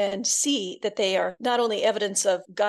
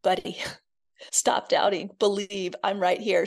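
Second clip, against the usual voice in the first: compassionate. Retold or imitated. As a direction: speak it with deep compassion, like to a friend. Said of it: "saying with deep compassion".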